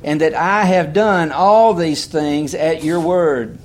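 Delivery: emphatic preacher reading the Bible aloud; scripture reading. Real, not acted. Reads scripture aloud to congregation.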